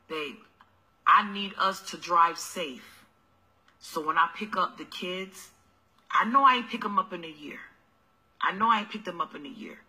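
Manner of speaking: low, soft sweet-talking hustler voice; mock broke boyfriend. Deadbeat dad wheedling.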